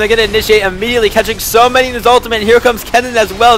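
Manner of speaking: high, loud, fast hype call; excited play-by-play. Real, not acted. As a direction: call the fight at full hype. Big team fight erupts.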